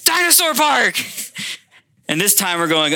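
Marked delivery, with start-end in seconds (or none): 0.0-1.0 put-on very high, loud squeal of a toddler; excited little girl. Toddler picking the family outing, a thrilled high squeal. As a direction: shriek it with delight. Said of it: "she goes".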